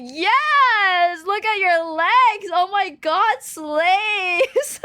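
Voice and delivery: hyping up mom's photo; hype man. Retold or imitated. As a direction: hype her up like a cheerleader. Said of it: "So I'm always like".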